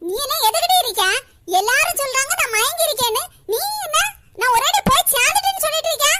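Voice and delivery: grandma lashes out at her daughter-in-law; furious scolding. Acted. Grandmother beats her daughter-in-law while scolding her, furious and shouting.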